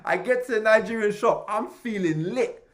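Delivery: high, loud, exuberant retelling; hyped-up excitement. Retold or imitated. Getting to the Nigerian shop feeling lit, hyped-up excitement.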